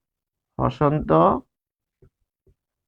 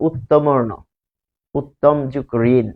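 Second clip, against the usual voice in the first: slow demonstration; 2 semitones lower, slower than usual. Shown as a demonstration. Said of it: "teacher sounds out a word".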